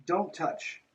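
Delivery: usual speaking voice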